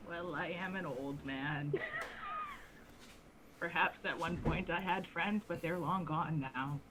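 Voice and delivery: put-on old man voice. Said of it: "I'm losing my old man voice".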